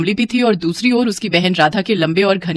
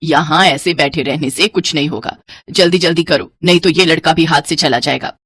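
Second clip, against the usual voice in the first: lower-pitched, mildly nagging; taunting mother; 5 semitones lower than usual. Acted. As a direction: taunt her lightly as a disapproving mother. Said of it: "ताने मारना शुरू कर दिया".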